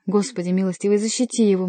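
mildly urgent plea to God; understated fervent prayer; praying. A narrator's reading. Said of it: "молилась Диана". (с мольбой)

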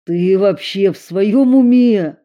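loud angry reproach; loud scolding cry; angry outcry. A narrator's reading. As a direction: yell in frightened anger. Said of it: "вскрикнул Эрик".

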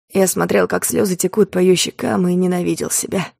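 ordinary delivery

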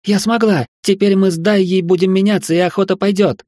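high, loud joyful shout; triumphant shout. Acted. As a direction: cry out in victory. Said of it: "Шелли кричала".

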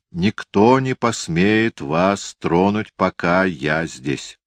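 firm and slow, steady; a firm, slow promise of protection. Acted. Liza reassures the frightened children, firm and slow. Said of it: "твёрдо сказала Лиза".

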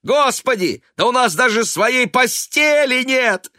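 высокий громкий крик; кричи в ярости. A narrator's reading. Сын продолжает кричать на мать. (сын кричит на мать, громко и высоко)

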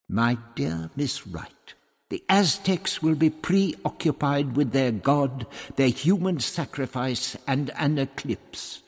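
a touch of wounded pride; aggrieved. Acted. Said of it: "The doctor was aggrieved".

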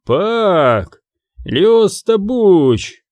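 mildly rasped angry exclamation; angry wheeze. A narrator's reading. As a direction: spit out the name slowly. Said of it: "зло прохрипел второй охранник".

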